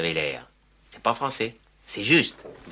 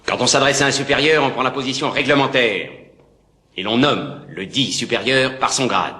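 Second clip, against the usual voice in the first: stern reprimand; 6 dB louder than usual. Acted. Officer reprimands soldier.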